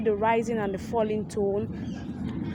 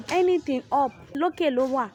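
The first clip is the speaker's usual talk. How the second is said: rising pitch demo; 4 semitones higher, 4 dB louder than usual. Shown as a demonstration. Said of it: "It goes up".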